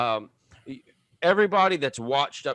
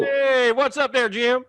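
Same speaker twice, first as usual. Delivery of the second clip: southern drawl greeting; 11 semitones higher, 6 dB louder, slower than usual. Retold or imitated. Mimicking Pigman southern greeting.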